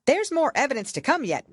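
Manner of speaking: high, loud, hurried interruption; hurried rabbit. A narrator's reading. White Rabbit jumping up to tell the king, hurried. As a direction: burst in eagerly. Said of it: "jumping up in a great hurry".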